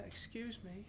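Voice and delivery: put-on thin high old man voice; a timid, frail elderly plea. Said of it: "And he went".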